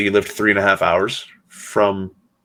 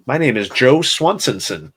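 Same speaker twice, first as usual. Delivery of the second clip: Joe Swansonson; 5 semitones higher than usual. Pretend. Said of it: "Family Guy joke".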